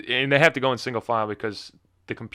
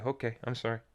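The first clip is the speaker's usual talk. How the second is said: meek apology; 10 dB quieter than usual. Retold or imitated. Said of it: "I say".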